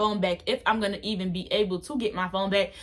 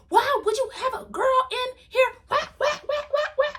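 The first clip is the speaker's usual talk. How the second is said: high-pitched mock scolding, repeating why; imitating angry stepmom; 13 semitones higher than usual. Stepmom scolding her stepson, high mock rant. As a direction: play the furious stepmom, pitch jumped up. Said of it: "She's like".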